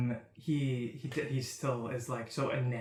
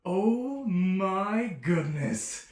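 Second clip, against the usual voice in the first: high, loud, slow fawning cry rising to a squeal; flamboyant delight; 8 semitones higher, 7 dB louder, slower than usual. Acted. Flamboyant stranger greeting Bacchus with a high squeal. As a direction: swoon over the jailer, then squeal his name.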